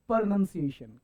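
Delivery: प्रोनंसिएशन opened on a short, weak "pruh/per"; correct pronunciation. Shown as a demonstration. Teacher correcting students, प्रोनंसिएशन with a short schwa opening. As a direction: say प्रोनंसिएशन with the first vowel reduced to a schwa. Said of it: "ऐसे नहीं बोलने का".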